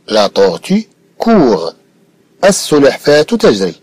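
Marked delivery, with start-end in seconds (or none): 0.1-1.7 slow dictation. Shown as a demonstration. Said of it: "cette phrase peut avoir une fin comme".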